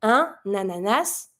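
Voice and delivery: Un ananas with the N run into the vowel; careful linked French. Shown as a demonstration. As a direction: join Un and ananas smoothly. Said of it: "pronounce your N to be able to link".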